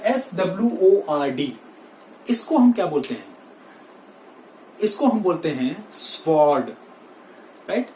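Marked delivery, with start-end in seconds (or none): 5.9-6.7 "स्वॉर्ड" with w sounded after s; wrong sword. Shown as a demonstration. Teacher shows the common mistake, w sounded. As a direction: say an audible v/w in "स्वॉर्ड". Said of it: "Sword is wrong".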